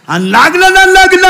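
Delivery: high, loud comic climax; exclaimed punchline. Acted. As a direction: cry it out high, holding the pitch up. Comic climax of wedding story. (किस्स्याचा कळस उंच आवाजात ओरडून)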